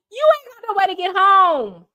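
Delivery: high, loud laugh-cry; laughing disbelief. Real, not acted. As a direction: crack up while saying it.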